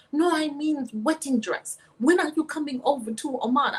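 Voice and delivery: mimicked Omani accent. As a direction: play an eager suitor in Omani-accented English. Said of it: "He's saying all this in his accent from Oman".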